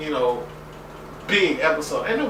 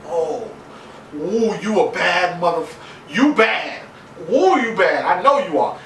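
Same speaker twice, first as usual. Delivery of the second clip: sassy admiration; 3 semitones higher, 4 dB louder than usual. Retold or imitated. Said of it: "and I'm like".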